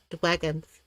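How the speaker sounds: "Dragons" softly said as "dwagons"; babyish W for R. Shown as a demonstration. Repeating the playful correction, "Dragons" said softly as "dwagons". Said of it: "No, dragons".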